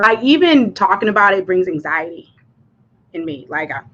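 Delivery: shaky voice cracking with nerves. Real, not acted. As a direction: voice cracking, anxious. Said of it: "I can hear my voice cracking".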